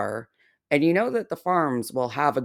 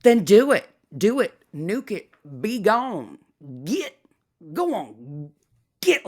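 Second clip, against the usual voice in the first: taunting dismissal; 3 semitones higher than usual. Real, not acted. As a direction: shoo her away like a cow. Shooing target off platforms.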